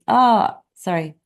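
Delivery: ordinary delivery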